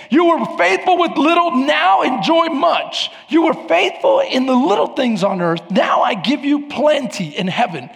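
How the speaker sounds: a king calling his servant in, ringing out; joyful Jesus voice. Acted. Jesus welcomes the faithful servant.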